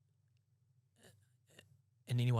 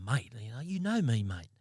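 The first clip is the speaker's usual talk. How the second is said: pleading appeal. Retold or imitated. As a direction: plead with him, voice lifting on know. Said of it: "and I kept saying".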